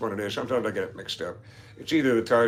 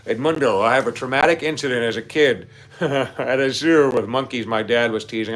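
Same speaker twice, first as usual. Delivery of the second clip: reading it back, breaking into a laugh; 5 dB louder than usual. Real, not acted. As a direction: try to read it straight but crack up. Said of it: "I shouldn't be laughing".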